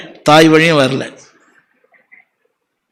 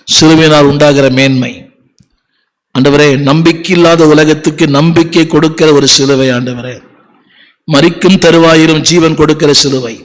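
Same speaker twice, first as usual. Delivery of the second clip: earnest closing prayer. Acted.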